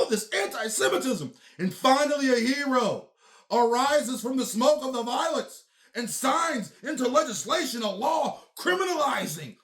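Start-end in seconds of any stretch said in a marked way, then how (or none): 1.6-9.6 hammed-up epic announcer shouting the climax; mock-heroic proclamation. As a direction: announce the hero like a movie trailer.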